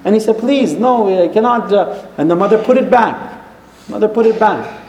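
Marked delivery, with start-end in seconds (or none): 0.4-1.7 higher-pitched retold plea; mildly upset son refusing; upset refusal. Son refusing his mother the ring, upset. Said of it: "he really got upset".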